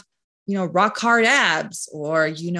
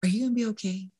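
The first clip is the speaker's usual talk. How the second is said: softly asking the wife if she's okay, a touch quieter; quiet caring check-in from the husband; husband quietly asks his upset wife if she's okay, softly caring; gentle concern; 2 semitones higher, 5 dB quieter, much faster than usual. Retold or imitated. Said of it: "my husband was like".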